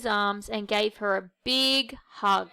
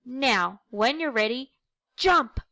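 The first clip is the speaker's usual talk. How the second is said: shout; 2 semitones higher than usual. Acted. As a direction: cheer him on to jump. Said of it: "the toys all shouted".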